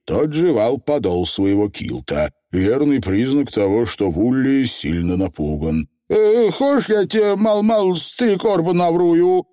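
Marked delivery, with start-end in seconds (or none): 6.1-9.5 high, hesitant little voice; timid Feegle offer. A narrator's reading. Feegle offering lies to the witch, timid. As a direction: sheepishly propose a tall tale. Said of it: "робко предложил Явр заядло".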